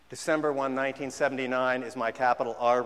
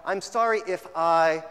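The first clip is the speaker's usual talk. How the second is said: mock hollow apology; 3 semitones higher, 6 dB louder, slower than usual. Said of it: "fill in the blank".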